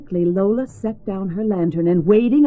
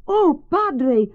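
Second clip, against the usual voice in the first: breathless cry; 7 semitones higher than usual. A narrator's reading. Lola rushing to the padre, urgent cry. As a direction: burst out to the priest. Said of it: "Lola cried".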